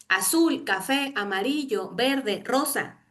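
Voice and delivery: slowly spaced list of colours. Shown as a demonstration. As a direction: lay out each colour slowly. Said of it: "a ver". (enumerando colores despacio)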